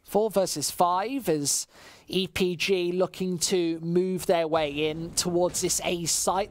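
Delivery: esports caster calling the action; live play-by-play. Acted. Caster calling the round for stream chat, live play-by-play. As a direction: keep the round flowing, rising with the fights.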